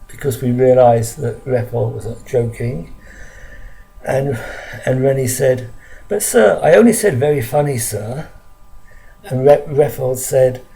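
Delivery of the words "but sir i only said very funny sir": quick, lightly acted objection to a teacher; mild protest. Boy objects to teacher about the cane, mildly protesting.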